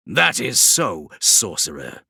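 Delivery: slow, pleased demon's voice; approving demon. Acted. Demon Vashtor praising the sorcerer, slow and pleased. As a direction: grant him a nod of approval. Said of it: "said Vashtor approvingly".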